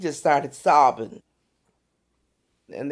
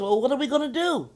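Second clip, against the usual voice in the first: higher, quick worried question; imitating doctors at a loss, pitched up; 7 semitones higher, faster than usual. Doctors huddled outside her room, at a loss.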